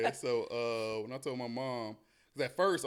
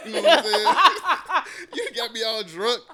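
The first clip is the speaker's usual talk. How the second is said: mock crying; 7 semitones higher, 12 dB louder than usual. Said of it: "I started crying".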